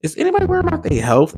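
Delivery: high, loud mock TikToker call; imitating TikToker. Quoting a TikTok creator to followers, high mimicry. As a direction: pitch way up to mimic her catchphrase. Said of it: "She said".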